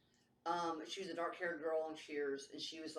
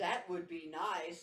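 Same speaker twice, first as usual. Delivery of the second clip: robot voice; much slower than usual. Pretend. A hint of a robot doll answering her. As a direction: say it like a machine. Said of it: "He stayed a robot voice the whole time".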